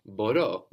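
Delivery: μπορώ said bo-RO, stress on the last syllable; teacher repeats Μπορώ clearly with the stress on the end; model Greek word. Shown as a demonstration.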